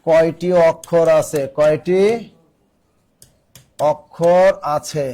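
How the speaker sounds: slow, spaced-out words with pauses; slow dictation. Real, not acted. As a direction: dictate slowly, leaving time to write. Teacher dictates question for writing. (থেমে থেমে ধীরে বলে লেখানো)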